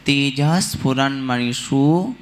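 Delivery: तेजः स्फुरन्मणिषु as "tejah-sphuran-manishu", no i before s; correct sandhi. Shown as a demonstration. Teacher models the joined reading of तेजः स्फुरन्मणिषु, no added vowel. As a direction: join तेजः straight onto the s of स्फुरन्मणिषु. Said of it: "ऐसे पढ़ना".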